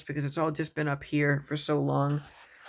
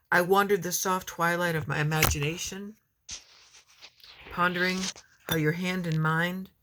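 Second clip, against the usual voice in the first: measured poetry recital with pauses; poem reading; 2 semitones higher than usual. Acted. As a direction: read it as a poem, phrase by phrase. Starts second poem.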